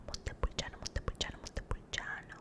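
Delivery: Montepulciano whispered in Italian, mon-te-pul-CHA-no, crisp consonants; repeated trigger word. Shown as a demonstration. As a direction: savor Montepulciano syllable by syllable in a whisper. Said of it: "went to Montepulciano".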